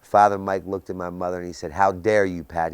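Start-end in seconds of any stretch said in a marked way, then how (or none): 1.7-2.7 retold scream. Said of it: "He screamed at her".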